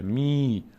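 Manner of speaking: می held as a long "mee"; drawn-out teaching model of می; long ī sound. Shown as a demonstration. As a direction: stretch the vowel of می into a steady ee.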